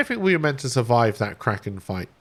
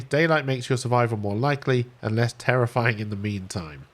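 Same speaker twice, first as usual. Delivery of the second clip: measured read-aloud of game text; story narration. A narrator's reading. Streamer reading the stranded survivor's tale to viewers, narrating.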